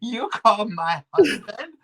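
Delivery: imitating Hiroko. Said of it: "she's like".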